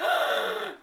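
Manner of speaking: sharp acted gasp; mock shocked gasp. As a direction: gasp as if taken aback. Acting out her shocked reaction.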